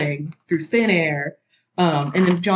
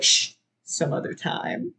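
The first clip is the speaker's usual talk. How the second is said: hushed mock whisper, slow; 5 dB quieter than usual. Johnny hushing Tyler after she says I love you, whisper. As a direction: shush her gently.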